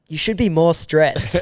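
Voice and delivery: a laugh breaking through the quoted warning; laughing quote. Retold or imitated. Laughing as she warns the unworried traveller. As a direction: chuckle while you quote her.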